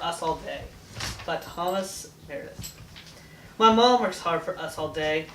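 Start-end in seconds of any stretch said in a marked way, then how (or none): 3.6-5.2 steady, measured villanelle recital; poem reading. Acted. Girl reading her birthday villanelle for Mom, steady recital. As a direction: read it as a gentle tribute.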